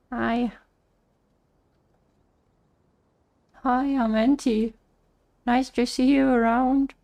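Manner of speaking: duck puppet with a southern drawl, lips still; ventriloquist voice. Pretend. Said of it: "Why does Auntie sound southern?".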